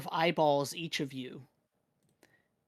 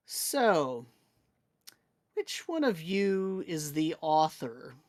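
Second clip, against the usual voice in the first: proper bored voice; slower than usual. Acted. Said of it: "It says in a very proper, sort of almost nonchalant, bored voice".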